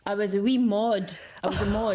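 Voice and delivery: put-on a light slip into a broad Edinburgh Scots accent on "I was a wee mod". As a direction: let a hint of Edinburgh Scots creep in, "wee" said the Scottish way. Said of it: "you slipped into that accent really easy".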